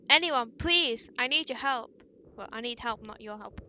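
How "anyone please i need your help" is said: desperate shout. Acted. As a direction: call out louder, begging anyone to hear. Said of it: "try to make your voice louder".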